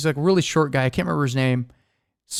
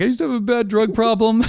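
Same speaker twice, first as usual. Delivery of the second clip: badly faked Colombian accent, higher pitched; 5 semitones higher than usual. Colombian coworker confessing a drug problem, horrible mock accent. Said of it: "I don't even know what accent I'm doing".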